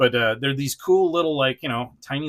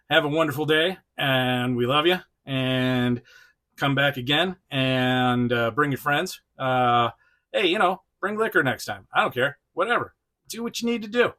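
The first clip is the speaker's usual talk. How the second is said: light, slightly louder playful sign-off; Quick Kick sign-off; 3 dB louder than usual. Retold or imitated. The host lightly voicing Quick Kick's goodbye to viewers. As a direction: hand the toy the goodbye. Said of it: "Quick Kick saying".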